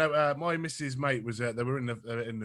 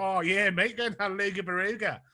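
slow, higher "Luga Baruga"; lightly voiced Australian friend; 8 semitones higher, 5 dB louder, slower than usual. Retelling the Australian mate's call, lightly mocked Aussie voice. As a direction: drawl it out like the Aussie mate. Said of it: "I was like".

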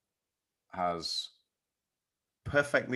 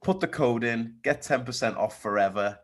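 loud, high pushy ad yell; aggressive hard sell; 5 semitones higher, 8 dB louder than usual. Acted. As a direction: shout the sales pitch at them. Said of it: "That was aggressive".

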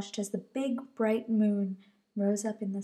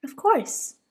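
with a smile; 6 semitones higher, 7 dB louder than usual. Acted. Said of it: "said Mama with a smile".

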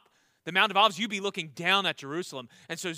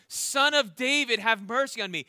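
a beggar crying out to Jesus, half-acted; mock cry for mercy; 2 semitones higher than usual. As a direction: call out like the blind beggar, lightly acted. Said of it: "the blind beggar cries out".

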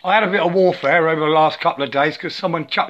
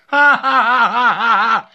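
real laughter; 5 semitones higher, 5 dB louder than usual. Real, not acted. Laughs at his own realization.

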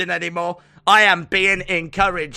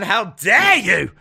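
slow, hammed-up how dare you; mock outrage; 2 semitones higher than usual. Co-host fakes being offended by the slang. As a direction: play the scandalised lady.

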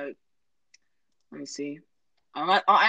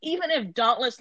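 high voice; 8 semitones higher than usual. Real, not acted. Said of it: "did you see how high my voice went there".

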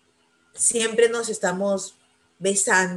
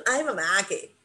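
put-on exasperated kids; 2 semitones higher than usual. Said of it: "me dicen".

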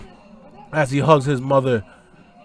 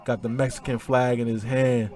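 lower, softer, choked-up tribute; getting emotional; 5 semitones lower, 9 dB quieter than usual. Real, not acted. Host paying tribute to Eddie after the match, quiet and choked up. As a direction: let the words sink, moved almost to tears. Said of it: "as I'm getting all emotional".

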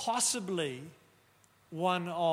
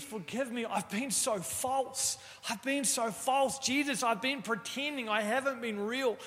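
raised, pleading voice with a mild mock yell; imitating desperate plea; 4 semitones higher than usual. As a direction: echo the teen's tearful repentance, lightly. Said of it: "he starts yelling".

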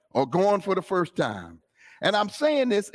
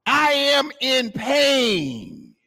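crying out; 4 semitones higher, much slower than usual. Acted. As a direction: cry it out slowly, higher, like someone hurting. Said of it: "really crying out".

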